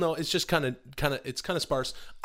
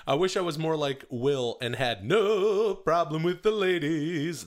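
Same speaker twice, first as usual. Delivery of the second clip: mock dopey fan voice; 5 semitones higher, 4 dB louder, slower than usual. Reading listener question in voice.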